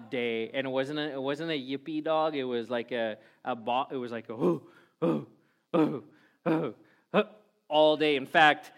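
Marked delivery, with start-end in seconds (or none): 4.3-7.2 short repeated woofs, spaced apart; mock barking "oh, oh, oh"; imitated dog bark. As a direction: bark like a big dog, not a yippy one.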